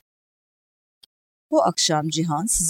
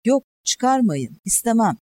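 frightened pleading; 6 semitones higher, 4 dB louder than usual. A narrator's reading. Cihan refuses to have the arrow pulled, pleading in fear. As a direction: narrator acting a patient begging them off.

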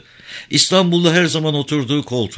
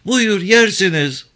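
put-on high, slow offering from a frail old woman; old village mother; 10 semitones higher, 4 dB louder than usual. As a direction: hold the pears out gently.

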